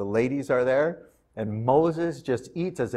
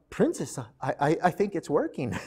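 softer, stammering, hushed report; timid mother; 7 dB quieter than usual. Acted. Mother tells the princess the baby is feeding, soft and hushed. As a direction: hide the thrill.

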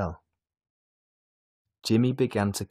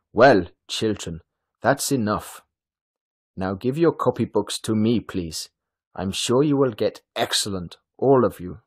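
louder, projected voice of a teacher addressing her class; kindly teacher; 7 dB louder than usual. A narrator's reading. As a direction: speak up brightly to the whole class.

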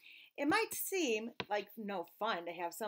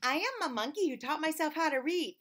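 monkey voice; 5 semitones higher, 3 dB louder than usual. Acted. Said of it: "my monkey mouth and my monkey voice".

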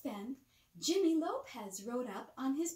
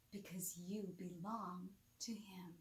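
soft unvoiced whisper, much softer; 4 semitones lower, 9 dB quieter than usual. Real, not acted. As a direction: whisper it like a bedtime secret. Bedtime whisper to child.

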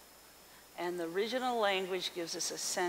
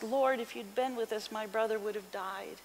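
mildly sorrowful, sinking at the end; in sadness. Acted. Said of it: "in a sadness".

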